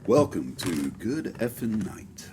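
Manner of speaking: slow podcast intro with big pitch swings; put-on podcast host voice, drawn out; radio voice. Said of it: "Definitely the best podcast voice so far".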